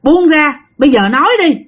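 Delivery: lightly voiced exorcist; stern shaman. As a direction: order the spirit off. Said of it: "Ổng mới nói rằng á là".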